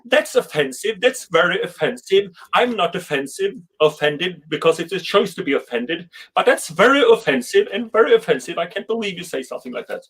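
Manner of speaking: high-pitched, outraged offended American; mock the easily offended, voice up high; hammed-up offended American. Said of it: "they talk like this".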